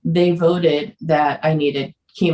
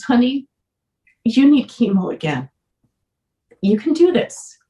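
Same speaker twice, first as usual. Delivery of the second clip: choked up; 6 semitones higher than usual. Real, not acted. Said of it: "I'm gonna cry".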